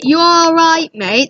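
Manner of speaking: a light English "You all right, mate?"; casual English greeting to a mate; English accent. Shown as a demonstration. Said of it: "that's an English accent".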